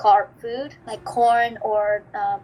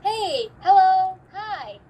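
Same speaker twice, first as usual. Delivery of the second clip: mock greeting; 8 semitones higher, 3 dB louder, slower than usual. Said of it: "if you meet new people".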